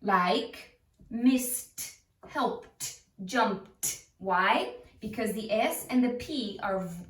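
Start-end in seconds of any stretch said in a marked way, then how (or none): 1.1-4.1 "missed, helped, jumped" each ending in a crisp T. Shown as a demonstration. Teacher giving examples, "missed, helped, jumped" with ed as T. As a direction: release a breathy T at the end of "missed, helped, jumped". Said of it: "it is pronounced t".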